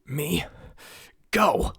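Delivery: high loud yell, climbing on go. Acted. Tiny prince yelling at the giantess to let go. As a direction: shout with all his tiny might. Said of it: "Prince Alban yelled, as loudly as he could".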